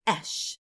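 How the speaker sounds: "Esh" with a short E; modern pronunciation. Shown as a demonstration. Teacher showing the modern way, "Esh" with short E. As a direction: say "Esh" with the vowel of "bed". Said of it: "say it the modern way".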